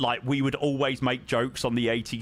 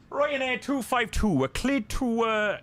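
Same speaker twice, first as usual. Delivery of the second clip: put-on a light Indian accent on the radio call; lightly put-on Indian accent for the controller call; 10 semitones higher than usual. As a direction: slip into an Indian accent, higher. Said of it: "I went a bit Indian then".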